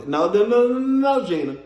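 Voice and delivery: playful scolding protest; emphatic correction. Pretend. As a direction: cut Gina off with climbing no's. Correcting Gina's claim she asked.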